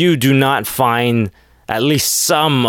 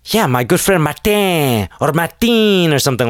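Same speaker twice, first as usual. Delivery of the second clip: mock Latino accent; 6 semitones higher than usual. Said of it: "they use their Latino accent very heavily".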